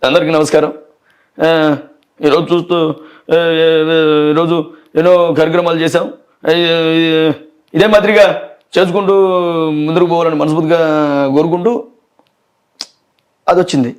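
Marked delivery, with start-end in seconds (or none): 0.1-11.7 lightly voiced Balakrishna greeting a crowd; a hint of Balakrishna giving a stage speech; mild Balakrishna public address; Balakrishna impression. Shown as a demonstration. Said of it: "Balakrishna గారికి చేస్తాం".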